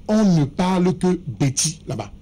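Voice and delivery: forceful, talking over the others. Real, not acted.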